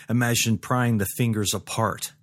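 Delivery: usual speaking voice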